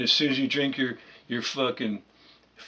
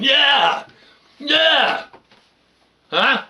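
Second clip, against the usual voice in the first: much higher, louder mock whoop; sarcastic cheer; 11 semitones higher, 7 dB louder, much slower than usual. Real, not acted.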